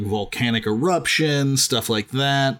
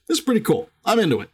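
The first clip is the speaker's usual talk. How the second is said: high, eager delight; excited; 8 semitones higher, much faster than usual. Retold or imitated. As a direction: gush like a fan. Retelling own excited reaction.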